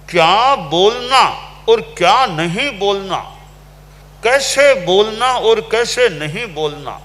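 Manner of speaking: preacher's building rhetorical crescendo; rising sermon emphasis. Acted. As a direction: hammer home the when, what and how of speaking. Preacher builds parallel phrases.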